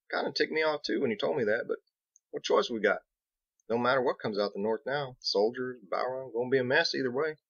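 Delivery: easygoing country mason, a bit worried; lightly voiced Biggs. Biggs telling Captain about the north, folksy and worried.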